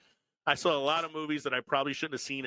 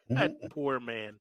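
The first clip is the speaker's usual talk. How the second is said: slow, laughing pity; laughing mock pity; 3 dB louder, slower than usual. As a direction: echo it through a laugh.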